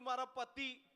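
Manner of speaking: high-pitched tearful woman; mock tearful. Weeping woman names her problem at last, mock tearful. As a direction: whine it as if crying. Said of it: "એક બેન રડતા હતા".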